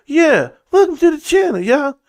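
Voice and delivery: high, hammed-up channel greeting; mock host welcome. Streamer mocking a welcome message, high cheesy host voice.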